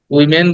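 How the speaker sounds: "উইমেন" with a clear e in the second syllable; the mistaken "উইমেন" ending in -men; wrong pronunciation. Shown as a demonstration. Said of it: "ওয়েমেন না".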